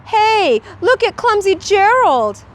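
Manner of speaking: high mocking taunt; sneering. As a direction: jeer at him like bullies. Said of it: "the animals all sneered".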